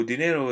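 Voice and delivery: "dinero" with the NE stressed; stress on penultimate syllable. Shown as a demonstration. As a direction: demonstrate "dinero", leaning on its middle syllable. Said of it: "second to last syllable usually receives".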